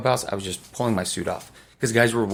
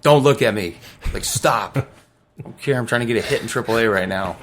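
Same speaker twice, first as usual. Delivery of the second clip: irritated don't-look-at-me; 2 semitones higher, 5 dB louder than usual. Retold or imitated. To teammates staring at him, a loud irritated brush-off. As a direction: wave everyone off, annoyed and loud. Teammates stare after injury news.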